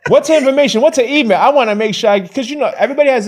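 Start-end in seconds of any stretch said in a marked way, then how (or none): 0.1-1.4 higher, louder insistent demand; pushy demanding. Retold or imitated. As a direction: press him like a pit bull. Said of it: "I'm being a pit bull now".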